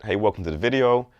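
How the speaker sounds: friendly greeting, lifted a little on "Hey, welcome to the video"; light upward lilt on "welcome to the video"; going up, friendly. Shown as a demonstration. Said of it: "start with going up a bit".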